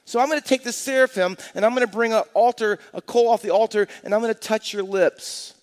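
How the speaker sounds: a lightly voiced God promising to change Isaiah; God speaking. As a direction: announce the cleansing with authority. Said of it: "God says".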